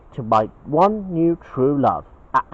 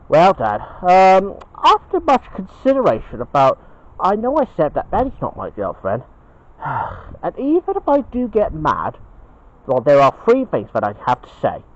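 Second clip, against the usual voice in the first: lightly voiced bear son, higher-pitched phrases; Ben the Bear, earnest; 4 semitones higher, 3 dB louder than usual. Ben leads up to a confession to Dad, earnest and raised. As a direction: build up to a big confession.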